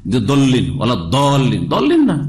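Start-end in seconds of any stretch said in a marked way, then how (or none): 0.3-0.7 "দল্লিন" with a d sound; d at the start of "দল্লিন"; disputed d reading. Shown as a demonstration. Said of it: "তারাই বেশি বাড়াবাড়ি করে". 1.2-2.2 heavy, insistent "দল্লিন"; exaggerated d reading. Shown as a demonstration. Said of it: "তারাই বেশি বাড়াবাড়ি করে".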